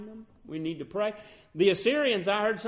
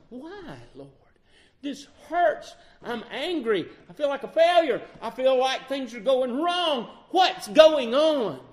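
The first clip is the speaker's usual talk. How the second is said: high, loud, pleading cry to God, slowing at the end; pleading with God in raw hurt; anguished prayer; 7 semitones higher, 8 dB louder than usual. Retold or imitated. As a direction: pour the hurt out to the Lord.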